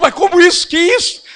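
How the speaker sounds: high, loud, exasperated shouting; agitated outburst. Retold or imitated. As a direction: imitate a salesman losing his temper. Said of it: "Aí o cara ficou nervoso".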